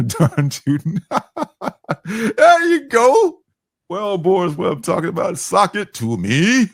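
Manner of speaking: high hooting hick voice, laughing; rowdy redneck. Acted. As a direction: whoop it up like a rowdy hillbilly. Hammy old-timer bit, laughing.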